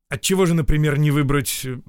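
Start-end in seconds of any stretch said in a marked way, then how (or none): none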